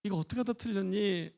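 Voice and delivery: put-on mother gently asking the child how it happened; gentle question. Shown as a demonstration. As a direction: ask the child kindly. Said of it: "아이에게".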